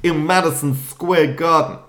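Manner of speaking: high, loud put-on Irish accent; mock Irish pundit voice. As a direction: ham up an Irish brogue asking about the fight. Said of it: "don't do accents".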